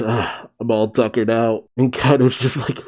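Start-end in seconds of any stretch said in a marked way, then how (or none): 0.0-1.6 deflated, softer mock exhaustion; Luffy. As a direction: let the air go out, worn out. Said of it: "Luffy just deflated and shriveled and goes".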